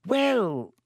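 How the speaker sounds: put-on high, drawn-out wheezy old teacher; Professor Binns, slowly. A narrator's reading. Amazed ghost teacher answering a student, slow and hesitant. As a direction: stretch it out, high and falling. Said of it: "said Professor Binns slowly".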